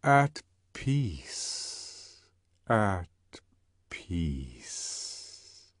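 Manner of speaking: slow fade to a whisper; trembling, sinking into a whisper. Acted. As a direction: let it tremble and die away. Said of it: "sank into a whisper".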